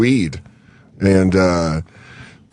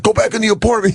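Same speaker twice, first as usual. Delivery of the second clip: mock yell; 10 semitones higher, faster than usual. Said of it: "He was like".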